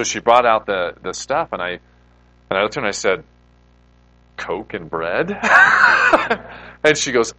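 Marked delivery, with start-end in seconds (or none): 4.4-5.3 incredulous. Retold or imitated. Shocked at Coke communion. 5.4-6.8 loud burst of laughter. Real, not acted. Laughing at Coke communion.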